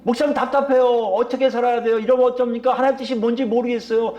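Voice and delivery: high-pitched, pressing complaint to the pastor; imitating an exasperated believer seeking answers; frustrated churchgoers. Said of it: "답답해 죽겠대요".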